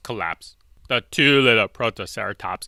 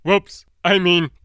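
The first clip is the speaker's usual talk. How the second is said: sly T-Rex; 9 semitones higher, 4 dB louder, slower than usual. Acted. T-Rex slyly correcting himself.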